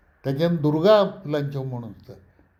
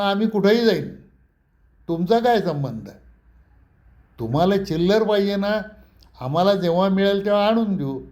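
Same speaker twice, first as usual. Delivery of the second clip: defiant retort; 5 semitones higher than usual. Retold or imitated. Pratap taunting the old owner with his own words, raised and defiant. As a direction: throw his own words back at him.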